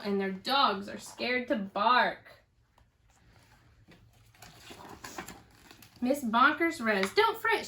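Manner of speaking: put-on lively storybook reading for kids; reading to children. A narrator's reading. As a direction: read it out to a little one, with bounce. Teacher reads picture book aloud.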